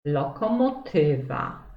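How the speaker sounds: "lokomotywa" with TY stressed; stress on penultimate syllable. Shown as a demonstration. Teacher giving pupils an example of the rule, "lokomotywa" stressed on ty. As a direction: lean on the second-last syllable of "lokomotywa": lokomoTYwa. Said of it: "na drugą sylabę od końca".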